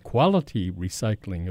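QUALITY lifted in pitch, set apart; emphasis on "quality", pitch rising on it; stress on quality. Real, not acted. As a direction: lean on the word "quality". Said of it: "I emphasize the words quality recycling".

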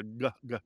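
g, g- caught at the back of the mouth; glottal sound. Shown as a demonstration. Host explaining a glottal to the caller, back-of-mouth g. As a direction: make g, g- as short glottal catches. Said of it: "it moves to the back of the mouth".

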